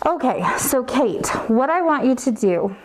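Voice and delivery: speaking through a face mask; muffled by mask. Real, not acted. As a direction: talk muffled behind a mask. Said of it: "we get muffled here".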